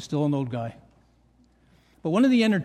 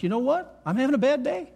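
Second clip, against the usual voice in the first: acted candid admission, pitched higher; higher-pitched imagined confession; 4 semitones higher than usual. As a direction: voice someone owning up to struggles, higher than usual. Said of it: "to be honest".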